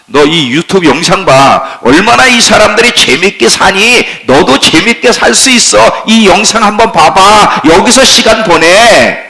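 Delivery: preacher voices the world luring believers, pushy. Acted. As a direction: urge them to enjoy everything now. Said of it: "세상에 계속 소리를 쳐요".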